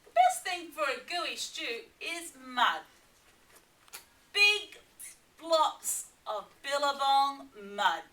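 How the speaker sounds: a lightly voiced eager Platypus. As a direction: sell the mud idea as Platypus. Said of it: "said Platypus".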